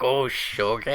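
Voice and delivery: slurred, hushing agreement; drunk person agreeing to hush. Retold or imitated. Drunk person told to be quiet, mock hushed agreement. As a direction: mimic a drunk trying to be quiet. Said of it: "when you tell drunk people to be quiet".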